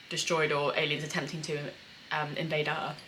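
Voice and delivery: talking through hiccups; hiccuping. Real, not acted. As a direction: hiccups breaking the words. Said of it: "I keep hiccuping".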